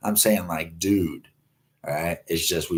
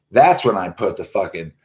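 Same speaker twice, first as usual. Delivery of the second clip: ordinary talk, nothing marked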